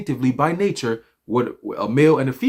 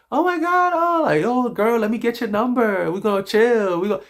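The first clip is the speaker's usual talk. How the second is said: put-on very high squealing girly voice; mocking women; 9 semitones higher than usual. Mocking women swooning over the guy, high squeal. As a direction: squeal it like an excited girl. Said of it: "that annoying shit that they".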